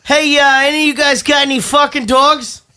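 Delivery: mock show host. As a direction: play an upbeat dog-show host.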